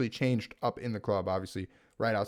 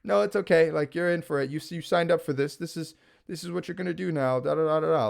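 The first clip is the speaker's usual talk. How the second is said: smiling menace; 5 semitones higher, 3 dB louder than usual. Retold or imitated. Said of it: "like, smiling".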